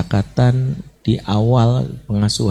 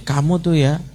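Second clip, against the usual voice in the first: higher, accusing mother's scolding; scolding a crying child in attacking language; 4 semitones higher than usual. Retold or imitated. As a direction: nag the child, jabbing at each kamu. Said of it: "Bahasa menyerang itu bisa gini".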